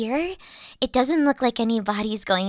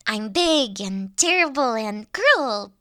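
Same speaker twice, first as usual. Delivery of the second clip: usual speaking voice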